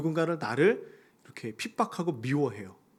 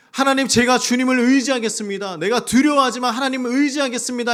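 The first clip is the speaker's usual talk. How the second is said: high, loud prayer cry; fervent cry of trust; 7 semitones higher, 7 dB louder than usual. Acted. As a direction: call out to God with full force. (높고 크게 외치는 간절한 기도)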